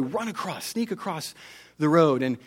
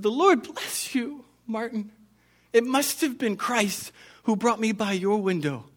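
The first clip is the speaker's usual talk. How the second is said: tearful grateful woman; 6 semitones higher than usual. Acted. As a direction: lift the voice up, full of grateful wonder. Grateful woman thanks Martin.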